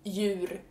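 "Djur" as yoor, no d sound; silent D. Shown as a demonstration. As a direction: say Djur starting straight on y. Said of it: "D J is also just J".

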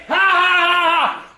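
shouted fake ha ha ha; sarcastic mock laugh. Dad mocking his son's laughter with a shouted fake laugh. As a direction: throw a bitter fake laugh back at him.

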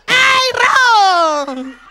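loud laughing shout of wrong; loud laughing exclamation. Real, not acted. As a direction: cry it out, half laughing. Preacher exclaims mock correction.

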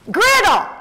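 put-on high, loud Southern child announcing herself; proud little Southern girl's shout; Southern accent. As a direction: belt out the name with a Southern vowel. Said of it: "because I have a Southern accent".

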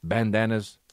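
a hint of a cocky street dog bragging; dog's voice. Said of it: "He's like".

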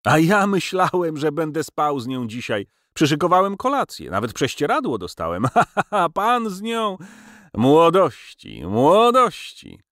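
hysterical laughter. A narrator's reading. A dying professor laughing madly about the girl, hysterical. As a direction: cackle madly at your own folly.

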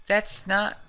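a son shouting back at his mother; shaken son. Acted. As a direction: push back in disbelief. Voicing son in game quarrel.

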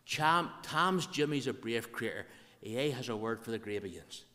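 slowed-down Ulster Scots demonstration; deliberate, broad Ulster Scots. Shown as a demonstration. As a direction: take the dialect sentence slowly for learners. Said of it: "Let me be slow".

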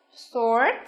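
"Sword" isolated, rising, with an "or" vowel; model pronunciation. Shown as a demonstration. Teacher says B is alike, modelling "Sword" with "or". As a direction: pronounce "Sword" as a careful model word. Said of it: "B cũng vậy".

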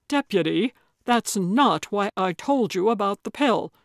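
loud, agitated objection; indignant appeal to the deputy; upset protest. Acted. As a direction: protest hard, worked up with anger. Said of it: "his face red, his whole body shaking".

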